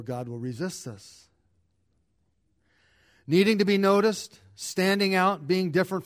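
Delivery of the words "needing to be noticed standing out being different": emphatic preaching. Real, not acted. Preacher builds to a point.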